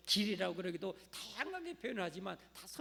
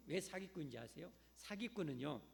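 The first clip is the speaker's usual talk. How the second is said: normal talking voice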